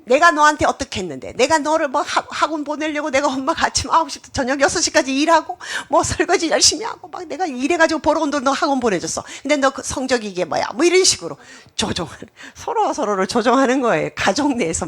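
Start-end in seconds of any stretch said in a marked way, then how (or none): 0.1-10.7 a hint of a reproachful mother, stressing 내가; mother guilt-tripping her child over grades. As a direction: scold like a martyred mom, leaning on 내가. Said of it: "또 엄마는".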